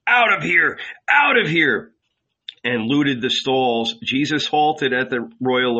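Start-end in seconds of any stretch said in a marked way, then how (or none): 0.1-1.9 high, loud frantic screaming; frantic mob scream. A narrator's reading. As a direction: scream with the crowd. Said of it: "It too frantically screamed".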